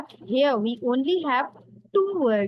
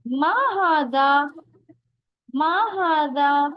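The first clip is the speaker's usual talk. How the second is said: Ma hadha said as a question, a bit higher; asking tune; 4 semitones higher than usual. Shown as a demonstration. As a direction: ask it like a real question. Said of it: "Ma is used in a question".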